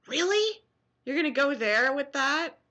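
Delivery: high disbelieving Really, then settling; are you serious; incredulous. Retold or imitated. Answering silly commenters with high mock disbelief. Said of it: "and say".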